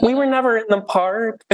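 high, nasal Broadway belt; nasal musical theater voice. Retold or imitated. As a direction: sing it like a Book of Mormon number. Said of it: "singing in, like, the most nasally voice possible".

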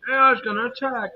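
mock the scaremongers; mock alarm. Mocking people's AI fears.

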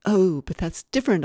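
man defending his slum visits, protesting. A narrator's reading. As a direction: push back hard on the word different. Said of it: "I protested".

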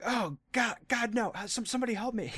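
high, panicked cry for help; terrified horror victim. Pretend. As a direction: beg for rescue in terror. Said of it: "could you imagine the source, like, in Cyborg's mouth going".

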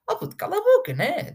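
high, loud scornful snap; shouted retort. Acted. Mocking critics online, a loud high shout of shut up.

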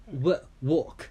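"walk" with an open aw vowel and silent l; pronouncing walk. Shown as a demonstration. Repeating it for a learner, careful aw vowel in "walk". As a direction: model "walk" carefully, aw in the middle. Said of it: "let me pronounce it again".

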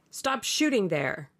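understated shout to the guns; calling out loud. Acted. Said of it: "he called out at the top of his voice".

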